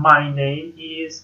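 slow, deliberate teacher example; unhurried classroom model line; slow model sentence. Shown as a demonstration. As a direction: say it slowly so students can repeat.

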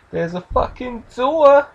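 put-on high, drawn-out Bill Burr-style accent. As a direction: slowly stretch it out in a mock Bill Burr accent. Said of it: "that stupid Bill Burr accent thing".

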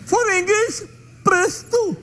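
robotic automated menu announcer; phone menu voice. Pretend. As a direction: read it like a phone recording. Imitating phone menu recording.

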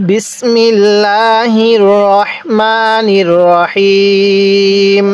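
drawn-out Quranic recitation of the bismillah; slow Arabic recitation. Shown as a demonstration. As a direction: recite it slowly and solemnly.

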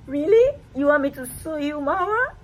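mock outrage. Mock accusing baby of hiding food.

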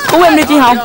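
pleading call, begging; pleading prayer. Acted. Boy begging his dead sister to save someone, pleading. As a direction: beg the dead sister for help.

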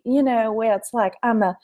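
genteel Alabama or Georgia accent; Southern lady accent. Shown as a demonstration. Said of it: "I could go a Southern lady".

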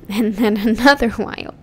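softly laughing through another while; laughing repeat. Real, not acted.

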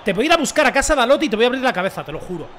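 mock-angry threat; amenaza fingida. Amenaza jocosa al rival Dalot. (amenaza airada en broma)

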